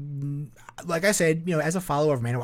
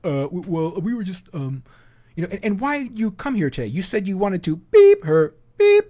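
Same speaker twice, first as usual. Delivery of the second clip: higher, flustered mock stammer; caught predator; 8 semitones higher, 9 dB louder than usual. Caught man stammering at the host, mock flustered. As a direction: play a busted guy fumbling. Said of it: "the guy would be like".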